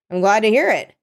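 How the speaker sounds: dry sarcastic reply. Acted. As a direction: say it with a sarcastic edge. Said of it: "she was being sarcastic".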